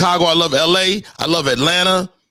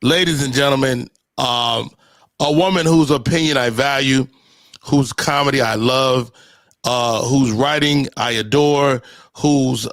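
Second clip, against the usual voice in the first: grand announcer intro; 3 semitones lower than usual. Acted.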